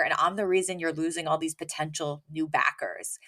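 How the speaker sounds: a retold whisper trailing away; whispered confession. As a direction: drop to a whisper on the last of the line. Fran confessing the snub to Sheffield.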